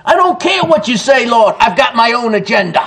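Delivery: high-pitched, emphatic defiant refusal; forcible defiance. Acted. Believer refusing the Lord for their own agenda, forcibly defiant. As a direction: push back hard, starting high. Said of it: "that is forcibly".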